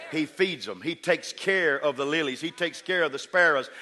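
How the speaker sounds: building preaching. Real, not acted.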